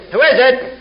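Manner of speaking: high-pitched parrot question; parrot's piping call. Acted. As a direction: pipe up like a parrot at the door. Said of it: "and the parrot says".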